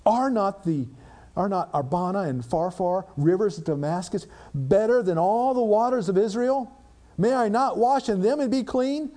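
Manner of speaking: ranting. Acted. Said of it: "Naaman continues on his rant".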